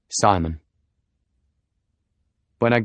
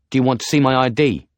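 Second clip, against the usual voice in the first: pushy, a bit thuggish, fast; 4 semitones higher, 5 dB louder, faster than usual. Acted. Simon to the doubtful cabbie, a bit thuggish and quick. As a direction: challenge the driver, a touch thuggish. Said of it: "a bit thuggishly".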